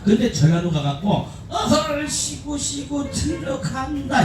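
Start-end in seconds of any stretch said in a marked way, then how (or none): 1.5-4.2 slow, high and softer call-out; lightly drawn out, a bit hesitant; imitating himself in Jeolla. Retelling his Jeolla show to the crowd, slow high call. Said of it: "이랬다가".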